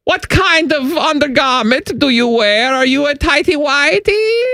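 put-on German accent.

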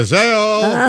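"Haseo" called out high, last part stretched; clipped-down Korean hello with a long tail; shortened casual greeting. Shown as a demonstration. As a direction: toss out a high, drawn-out "Haseo". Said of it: "sometimes people go".

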